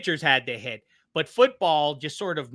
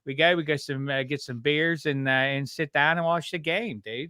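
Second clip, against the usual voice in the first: Pittsburgh accent. Shown as a demonstration. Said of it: "Pittsburghers have yins".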